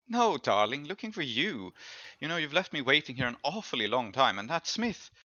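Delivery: lightly voiced rich lady, coy and condescending; a hint of a haughty, teasing noblewoman; Tamira, a wealthy noblewoman. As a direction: purr it at him like a rich patron.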